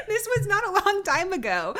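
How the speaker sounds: laughing high through the words. Real, not acted. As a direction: giggle while you say it. Laughing mid-story.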